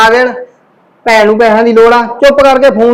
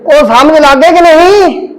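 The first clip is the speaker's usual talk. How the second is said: higher, slow threatening question; slow menacing question; 5 semitones higher, slower than usual. Acted. Husband threatening wife, slow and menacing. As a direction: make the threat sink in slowly.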